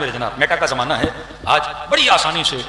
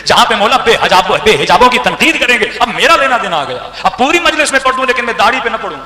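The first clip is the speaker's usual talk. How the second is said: louder, insistent build through the list; preaching; 3 semitones higher, 6 dB louder than usual. Acted. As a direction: hammer each clause home to the crowd.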